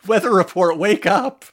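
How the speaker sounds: shouting to wake someone; loud wake-up call. Pretend. Calling out to a character.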